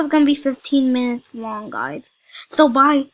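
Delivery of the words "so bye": loud goodbye. Real, not acted.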